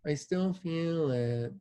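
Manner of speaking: put-on a patient grumbling in a light British accent. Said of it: "I naturally put a British accent on metal C Fs".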